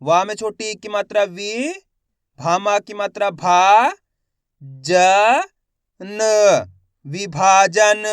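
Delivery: teacher's measured drill ending on a loud विभाजन; letter-by-letter sounding out. Shown as a demonstration. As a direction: spell it out syllable by syllable, stretching भा. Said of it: "एक ही अक्षर की पहचान करो, उनका उच्चारण करो".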